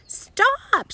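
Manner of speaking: high sharp cry of alarm; shout. Acted. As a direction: yell to stop the cat. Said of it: "shouted Amelia Bedelia".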